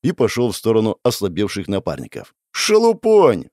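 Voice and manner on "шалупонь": high, boastful jeer; cocky dismissal; scornful bravado. A narrator's reading. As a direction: fling the insult out in a raised pitch. Dismisses Death with an insult.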